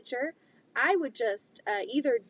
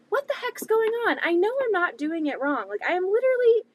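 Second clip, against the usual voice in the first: much higher, louder frustrated outburst; exasperated; 7 semitones higher, 4 dB louder, faster than usual. Retold or imitated. Quilter on the phone with tech support, exasperated outburst. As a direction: vent it, sure it's not your fault.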